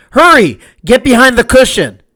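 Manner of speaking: high, pressing warning; urgent shout. Acted. Mendel warning the matzo man, high urgent call. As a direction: warn him the crowd is near.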